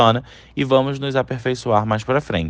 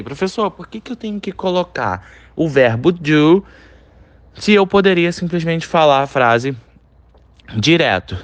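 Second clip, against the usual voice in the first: lightly voiced puzzled student, a bit higher; imitating a student; 5 semitones higher than usual. Teacher voicing a student's question, lightly higher and puzzled. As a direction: play the confused student asking. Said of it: "Você deve tá pensando aí".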